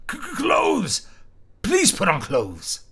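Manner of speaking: high, stammering, then slow and pleading; flustered, begging her to cover up; a panicked young man stammering high. Acted. Man flustered by naked woman.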